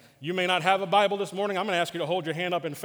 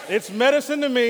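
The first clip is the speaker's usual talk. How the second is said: triumphant; 7 semitones higher, 8 dB louder than usual. Acted. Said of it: "Let's say it one more time".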